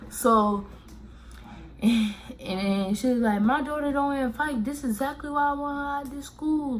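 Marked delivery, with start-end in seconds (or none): 3.4-6.8 higher mom voice, rushing angrily; mad mom. Retold or imitated. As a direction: play the furious mother. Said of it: "she was really mad".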